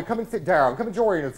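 usual speaking voice

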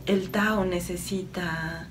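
calm, slightly softened meditative delivery; channeled message. Acted. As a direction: deliver it evenly, as an unhurried spiritual message. (mensaje canalizado, en tono sereno y pausado)

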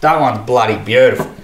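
lightly played-up Australian accent; best Australian accent. Shown as a demonstration. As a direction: say it proudly in broad Australian. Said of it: "in my best Australian accent".

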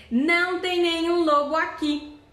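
the wolf at the door faking the mother's voice. Pretend. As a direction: recite the secret word in a put-on mom voice. Wolf says password disguised.

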